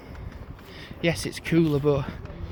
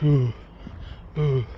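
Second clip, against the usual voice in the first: put-on Middlesbrough accent; 2 semitones lower than usual. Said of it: "The Middlesbrough accent. It's like".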